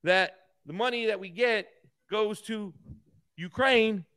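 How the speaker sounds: lightly voiced, stilted congressman speech; mocking Jeffries. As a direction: mimic a pompous congressman, lightly, and stretch the last line. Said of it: "That's how this idiot talks".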